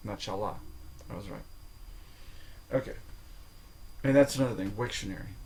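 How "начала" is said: Начала with final ла stressed; stress on last syllable. Shown as a demonstration. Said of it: "the stress changes according to form".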